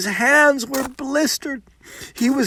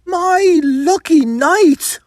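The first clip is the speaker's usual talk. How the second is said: bitter irony; 9 semitones higher, 4 dB louder, slower than usual. Acted. Pat, bitterly ironic.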